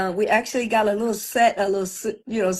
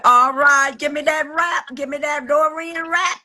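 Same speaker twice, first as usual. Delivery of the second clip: lightly acted demand, pitched up; higher voice for the girl's request; imitated restaurant girl; 5 semitones higher, 3 dB louder than usual. Restaurant girl calling for the rap, imitated in a higher voice.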